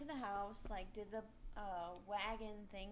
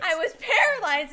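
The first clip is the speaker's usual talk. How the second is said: high, loud laughing words; 7 semitones higher, 18 dB louder than usual. Real, not acted. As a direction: laugh through the line. Laughing while telling.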